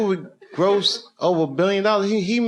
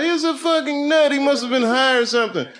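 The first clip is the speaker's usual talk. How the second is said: higher mock gossip; gossiping public; 7 semitones higher than usual. The public gossiping about Joaquin, pitched higher. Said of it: "Everyone was talking about".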